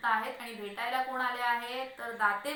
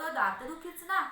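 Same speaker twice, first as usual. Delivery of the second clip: drawn-out, higher-pitched query; inquisitive question; 6 semitones higher, 4 dB louder than usual. Acted. Neighbours peeking in to check on him, inquisitive. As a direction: stretch it into a prying question.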